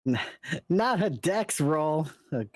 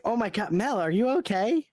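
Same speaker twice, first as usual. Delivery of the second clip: high, worried call to a friend; worried concern; 7 semitones higher, faster than usual. Acted. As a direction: call out to her in alarm. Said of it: "I'll just be like".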